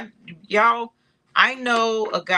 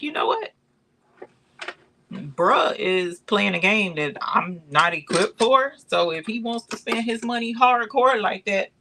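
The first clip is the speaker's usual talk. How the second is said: retold amused resignation; 4 semitones higher than usual. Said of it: "I was like".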